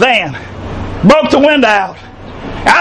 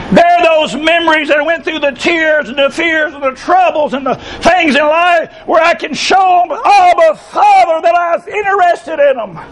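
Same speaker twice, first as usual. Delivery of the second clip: raised, fervent preaching voice. Real, not acted. Preacher rousing the congregation with fervent voice. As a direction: preach it out with full force.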